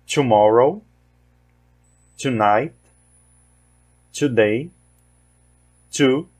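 "Tomorrow", "tonight", "two" with a clear English T; teacher modelling the T in "twenty", "twelve", "twin"; English T before W or O. Shown as a demonstration. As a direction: model each word slowly, one at a time. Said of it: "Então, vamos lá".

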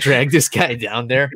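ordinary talk

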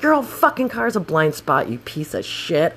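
retold pissed-off. Scooter rider answering passenger's excuse, retold anger. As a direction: re-enact an insulting retort. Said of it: "I was so pissed".

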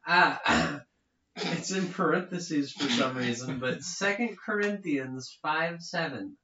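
light fifties radio announcer; mock old-time sponsor read; 1950s announcer. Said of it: "'cause I'm a nineteen fifties announcer".

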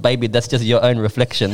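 imitating a reply, breaking into laughter; lightly voiced mock commenter, laughing after; Levo male voice. Girl replying to her friend's comment, in a mock Levo male voice. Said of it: "I said it in the Levo male voice".

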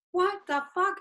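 high, loud retold disbelief; outraged disbelief. Comic recounting being put on the radio, outraged disbelief. Retells own outraged reaction.

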